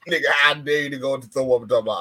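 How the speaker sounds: ordinary talk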